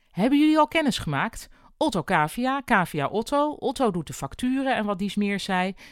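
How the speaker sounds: a busy boss hurrying through introductions; upbeat manager rattling off introductions to the new hire; bubbly overworked boss. Acted. Helma, cheerful boss, chatters.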